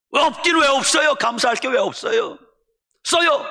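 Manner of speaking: wife shouting down her husband's despair, high and loud; wife scolding. Retold or imitated. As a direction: push him hard, no excuses.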